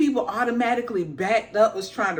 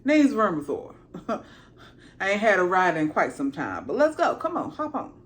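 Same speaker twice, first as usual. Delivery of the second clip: higher, laid-back dragon voice; a dragon greeting a buddy; lightly voiced friendly dragon; casual dragon; 4 semitones higher than usual. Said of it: "he's like".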